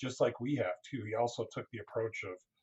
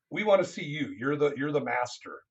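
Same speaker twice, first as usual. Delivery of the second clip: bad Ukrainian accent; 3 semitones higher, 6 dB louder than usual. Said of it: "bad Ukrainian accent".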